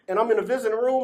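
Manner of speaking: real laughter under the words; laughing. Real, not acted. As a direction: still chuckling as he talks. Laughing while telling story.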